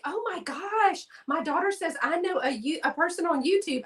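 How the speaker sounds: high-pitched, starstruck gush; imitated gushing. People telling the YouTuber they know of one, mock gushing. Voicing impressed people she meets.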